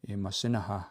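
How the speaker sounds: Imasinaha with the closing K barely sounded; very soft final K. Shown as a demonstration. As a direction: let the end of Imasinaha fade into a faint K. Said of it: "That K is very soft on the end".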